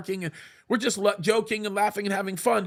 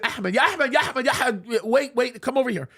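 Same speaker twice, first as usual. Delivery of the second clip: mild mock yell, pitched up; retold yell; 3 semitones higher than usual. Calling the shop owner's son over, retold yell. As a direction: imitate calling out urgently to a kid, name repeated. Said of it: "I yell at the kid".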